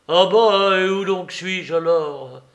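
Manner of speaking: loud, high opening burst; indignant, taken-aback question; indignant surprise. A narrator's reading. Old Soupe indignant in quarrel.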